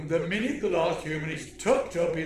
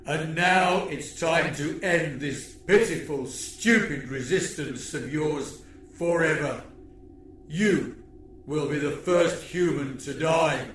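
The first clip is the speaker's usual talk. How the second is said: menacing alien villain. Acted. Villain threat monologue.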